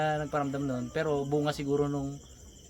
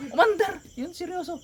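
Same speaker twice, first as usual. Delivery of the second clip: mock engine start; 5 dB louder than usual. Imitating engine start, joking.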